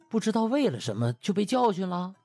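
plain reading voice

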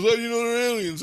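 high, loud imitation of disbelief; retold startled question. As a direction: act out an incredulous companion.

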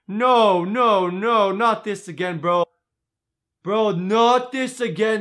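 loud, drawn-out disbelieving groan of words; stretched-out, exasperated disbelief; exasperated protest. Real, not acted. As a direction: protest as if it's happening all over. Reacts in protest to girlfriend claim.

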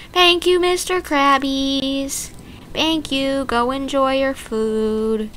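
slow, high sweet thanks; gentle sing-song gratitude. Acted. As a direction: thank them like little pets.

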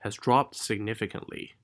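"dropped" given the main weight; stress on DROPPED. Shown as a demonstration. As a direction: lean on "dropped", then fall away. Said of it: "Dropped可以重读一下".

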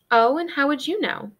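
lightly voiced aunt dropping the sweet act; sharp, sweetness gone. A narrator's reading. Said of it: "She had lost every ounce of her sweetness".

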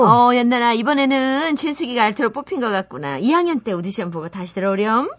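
a hint of a dismissive teacher; lightly voiced teacher. Teacher telling student she failed the audition, mildly dismissive.

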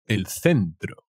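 El centro said slowly with a lisped c, el θentɾo; teacher models El centro for learners, slow and clear; slow Spanish model word. Shown as a demonstration. Teacher slowly models the Spanish word. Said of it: "The center".

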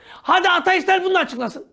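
laughing. Real, not acted. Mocking dare through laughter.

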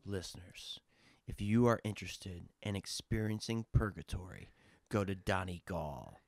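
slow, measured advert read; mock promo announcer. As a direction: sell it solemnly like a tourism commercial, spacing out each phrase.

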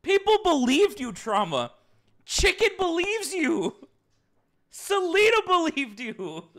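high, loud, slowed accusations; exasperated yell. Real, not acted. Streamer scolding Trauma before chat, loud and exasperated. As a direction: hammer each name home. Heated teasing argument.

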